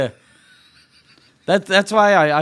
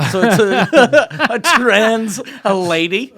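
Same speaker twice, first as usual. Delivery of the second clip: loud, cracking up while talking; laughing; 5 semitones higher, 6 dB louder, slower than usual. Real, not acted. Podcaster cracking up as he recaps the story, laughing. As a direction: struggle to get the words out through laughter.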